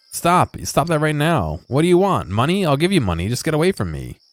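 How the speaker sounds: high, urgent begging; panicked pleading. Acted. Groom pleading with player to stop cat talk, high panic. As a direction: beg them to stop, offering money.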